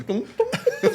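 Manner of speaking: very high comic "tum, tum"; squeaky imitated pop of a bulging biceps; cartoon muscle-pop noise. Showing friends a Popeye-like muscle swelling, high cartoon sound effect. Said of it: "igual o desenho do Popeye. Ele fazia assim".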